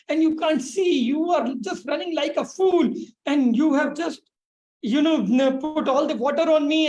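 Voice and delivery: retold indignant rant, voice rising; angry yogi. Yogi scolding the woman who spilled water on him, angry. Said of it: "suddenly became very angry, very angry".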